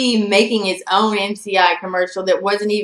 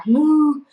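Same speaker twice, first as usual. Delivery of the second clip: higher, drawn-out moo; cow moo; 7 semitones higher, 4 dB louder than usual. Shown as a demonstration. Explaining the name's last word, playful cow moo. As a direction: imitate a cow mooing. Spells out name, imitates cow.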